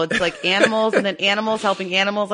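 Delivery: on the edge of real tears; tearful. Real, not acted. Host explains that only animals make her cry, tearful. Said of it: "I usually don't cry about people".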